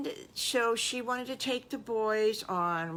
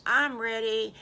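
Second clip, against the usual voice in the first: eager; 4 semitones higher, 6 dB louder than usual. Acted. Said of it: "and Wiggly says".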